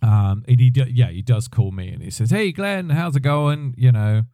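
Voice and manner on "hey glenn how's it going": put-on higher-pitched greeting in a mixed English-Canadian accent. Friend phoning Glenn out of the blue, English Canadian accent. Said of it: "in his English Canadian accent".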